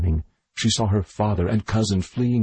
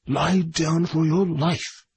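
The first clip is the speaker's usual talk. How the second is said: desperate shouted order; 7 semitones higher, slower than usual. A narrator's reading. Doctor orders the girl down for her life, shouting high. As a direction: stretch the command out, high and desperate.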